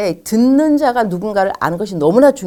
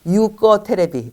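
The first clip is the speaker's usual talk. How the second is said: "You 꺼 테레비" spelled out slowly word by word; slow mock translation; 2 semitones higher, much slower than usual. Shown as a demonstration. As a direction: read "You 꺼 테레비" slowly like a literal gloss. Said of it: "되겠죠". ("You 꺼 테레비"를 한 단어씩 천천히)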